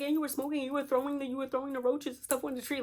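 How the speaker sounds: high-pitched panicky scolding; imitated panic. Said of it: "Like, she's panicking".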